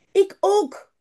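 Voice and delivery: high-pitched little Janneke calling out; storybook child calling "me too" style; eager child's call. A narrator's reading. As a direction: pipe up high, wanting to join in. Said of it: "roept Janneke".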